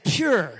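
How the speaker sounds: "Pure" stretched out slowly, almost two syllables; his own way of saying pure. Shown as a demonstration. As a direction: drag out "Pure" the way his family teases him for. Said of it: "the way I say pure".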